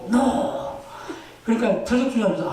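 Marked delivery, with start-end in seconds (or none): 0.1-0.6 high emphatic no; defiant refusal. Retold or imitated. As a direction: snap out a firm no. Missionary's bold answer to chief.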